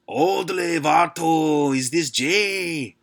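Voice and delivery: high, put-on Latino gangster accent, slow on the end; bad Latino gangster accent. Prank caller threatening Jay in a fake Latino gangster accent. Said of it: "terrible Latino gangster accent".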